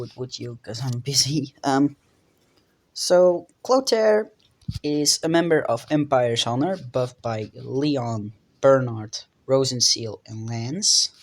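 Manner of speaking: talking stiffly through jaw pain; careful speech, sore injured jaw. Real, not acted. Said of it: "I sound weird, but my jaw is fractured".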